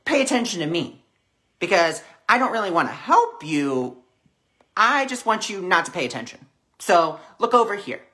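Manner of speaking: loud, high, insistent calling; pushy ego voice. Acted.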